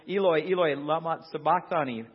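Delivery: crying out loud to God. Acted. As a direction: call out in anguish, loud. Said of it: "Jesus cried out in a loud voice".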